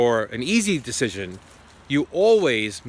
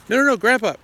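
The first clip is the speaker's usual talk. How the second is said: quick, higher, louder no-no-no; urgent protest; 10 semitones higher, 5 dB louder, faster than usual. Retold or imitated. Grandson stops grandpa hanging up, a higher, louder urgent plea. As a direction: stop him before he hangs up.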